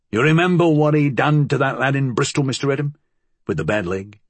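lightly voiced dialect-speaking old associate; uneasy challenge in working-class dialect; a hint of a streetwise henchman; Flood's rough dialect. Voices Flood telling old story.

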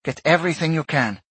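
commander's follow-up order. A narrator's reading. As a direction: give the crew a firm instruction. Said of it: "she ordered".

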